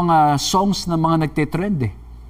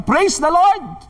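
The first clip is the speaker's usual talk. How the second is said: high, drawn-out cry of praise; imitated old woman's praise shout; 10 semitones higher, much slower than usual. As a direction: call it out high and slow, as from the doorstep. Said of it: "laging nagsisigaw sa harap ng pinto niya".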